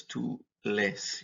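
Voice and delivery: lees said slowly as one long E; two E's run together. Shown as a demonstration. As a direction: blend both E's of lees into one sound. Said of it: "the two E's kinda align together".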